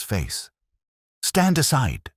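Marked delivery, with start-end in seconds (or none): 1.2-2.1 thundered much higher and louder; thundering. A narrator's reading. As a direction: bellow it at the constables. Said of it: "he thundered".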